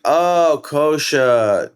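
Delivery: high, bright "Oh, Kosha" with a lift on Oh; mock surprise at the name; surprised. Producers reacting to his name.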